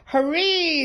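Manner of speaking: loud, high cheer; shout. A narrator's reading. The class cheering for Rabbit, shouted loudly. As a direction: cheer with everyone. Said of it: "they all shouted".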